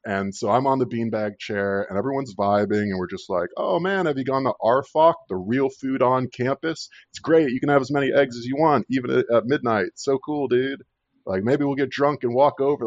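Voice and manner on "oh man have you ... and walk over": higher, eager dorm-newbie gushing; mock excited freshman chatter. Telling friends about his first dorm night, imitating eager gushing. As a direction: gush like a giddy new student.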